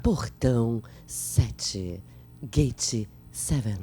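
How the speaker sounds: slow, deep airport PA voice; anúncio de aeroporto. Shown as a demonstration. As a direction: call the gate like an airport announcer. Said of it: "Voz do aeroporto". (anúncio de aeroporto, grave e lento)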